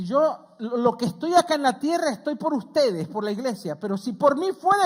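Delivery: Paul quoted. Retold or imitated.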